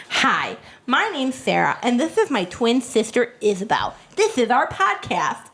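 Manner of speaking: Disney Channel host. Retold or imitated. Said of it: "it was very Disney Channel".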